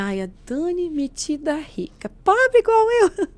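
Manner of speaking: high, loud mocking jab, building to a drawn-out finish; mock criticism. Woman retelling how she used to criticise Dani, mocking and high-pitched. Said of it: "eu criticava aquilo".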